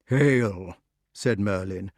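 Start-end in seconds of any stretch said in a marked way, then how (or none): 0.1-0.8 even, weighty greeting; measured salutation in the usual pitch; solemn wizard. Acted. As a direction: intone it gravely as a magician. Merlin's greeting, echoed by king.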